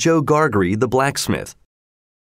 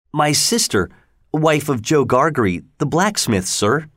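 put-on higher, meek child's voice; timid boy; 4 semitones higher than usual. Pip telling the convict who he lives with, high and meek. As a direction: answer politely, scared.

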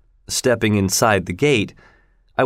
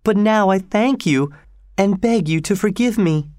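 tearful pleading; 8 semitones higher than usual. A narrator's reading. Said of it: "drying her eyes".

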